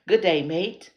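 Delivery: loud, hammed-up Australian greeting; Aussie accent attempt. Shown as a demonstration. Practising for Australian viewers, loud Aussie accent. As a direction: try the Aussie hello with lips stretched. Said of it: "Just stretch, stretch your lips out".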